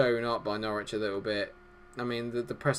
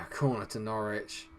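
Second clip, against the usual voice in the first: ordinary delivery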